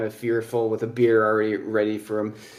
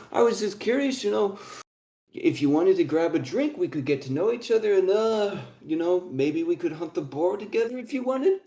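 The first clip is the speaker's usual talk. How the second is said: lightly voiced young dwarf, higher and tentative; a friendly, higher-pitched dwarf's invitation; 6 semitones higher than usual. Young dwarf inviting strangers for a drink, higher friendly voice.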